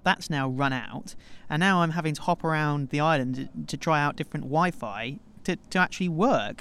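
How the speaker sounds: towel over head; muffled under a towel. Real, not acted. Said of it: "you have a towel on your head".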